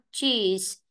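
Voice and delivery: "Cheese" with its ending fully sounded; full final sound. Shown as a demonstration. Teacher showing students not to swallow endings, careful ending demo. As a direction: carry "Cheese" right through the last consonant. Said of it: "âm đuôi là phải đọc triệt để".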